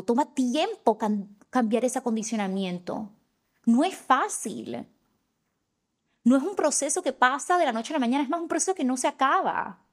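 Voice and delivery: rising passion, urging listeners on; impassioned. Real, not acted. Impassioned push about change.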